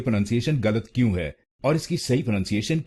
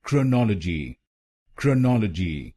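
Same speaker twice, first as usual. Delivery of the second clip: क्रोनोलॉजी with the weight on नॉल; stress on second syllable. Shown as a demonstration. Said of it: "दूसरे शब्दांश पर जोर डालना है".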